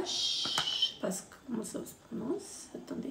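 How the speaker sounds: dropped to a near whisper, half to herself; quiet aside. Real, not acted. Unsure of the brand name, she murmurs to herself. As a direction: mutter it off-mic while checking the box.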